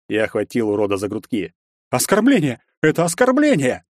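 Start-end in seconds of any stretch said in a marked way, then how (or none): 1.9-3.8 high-pitched, voiced outrage; angry seething. A narrator's reading. Bully grabbed by the hero, seething with outrage. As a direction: seethe at the insult in a raised pitch. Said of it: "Подрагивая от злости красными щеками, зашипел тот".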